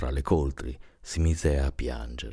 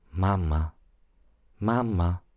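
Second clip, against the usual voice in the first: mildly raised call, second one higher; calling louder; 4 semitones higher, slower than usual. A narrator's reading. Little girl calling her mother in the dark, mildly raised voice. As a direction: call out for mum, pitch climbing on the repeat. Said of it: "ripeté a voce alta".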